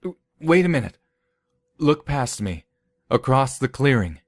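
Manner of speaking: frightened stammered plea; shaky pleading. Acted. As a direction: plead with a trembling voice. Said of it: "His voice shook".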